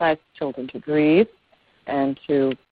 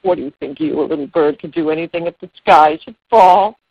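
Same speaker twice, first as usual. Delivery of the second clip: short laugh, then lightly incredulous question; mildly laughing at the little bird, as the elephant; amused elephant; 4 dB louder than usual. Acted. Elephant doubting a little bird can help, lightly amused. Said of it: "The elephant laughs".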